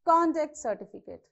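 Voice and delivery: CONduct certificate, weight on CON; "conduct" as a noun, first syllable stressed. Shown as a demonstration. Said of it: "You stress on this".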